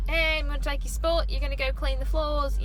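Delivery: put-on Australian accent. Worker taking a friend's spot at window, Australian accent. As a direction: put on a broad, not-quite-straight Aussie accent. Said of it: "I kinda got an Australian accent".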